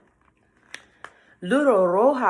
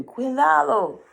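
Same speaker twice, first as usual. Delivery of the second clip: high, louder bird call; warning birds; 8 semitones higher, 3 dB louder than usual. Acted. Birds warning the girl, high urgent call.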